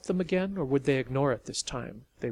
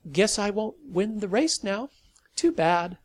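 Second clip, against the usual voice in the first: casual, friendly; 7 semitones higher, 6 dB louder than usual. A narrator's reading. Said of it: "She tried for a casual, friendly tone".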